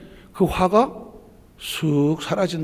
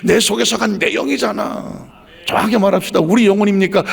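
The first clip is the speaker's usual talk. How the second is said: raised, ringing sermon voice; full-force preaching; 3 semitones higher, 4 dB louder than usual. Acted. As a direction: preach it out to the congregation.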